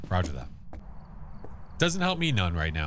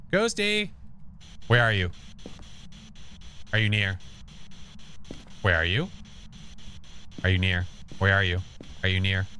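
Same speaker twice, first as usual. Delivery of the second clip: calling out to a ghost. Real, not acted. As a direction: beckon the ghost, voice carrying through the house.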